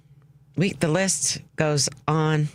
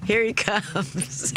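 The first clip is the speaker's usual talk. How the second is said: high, slow, gasping laughter; laughing so hard you can't breathe; hyperventilating; 7 semitones higher, much slower than usual. Real, not acted. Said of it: "I'm hyperventilating".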